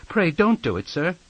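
high, anxious little plea; begging. A narrator's reading. Small boy pleads with the frightful man, begging. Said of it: "I begged".

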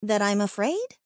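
muffled under a hand. Acted. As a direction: talk through a covering hand. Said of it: "my words muffled under her".

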